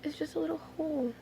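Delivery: soft unvoiced whisper. Real, not acted. Inspecting the needle hole on camera, whispered. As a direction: murmur it to yourself.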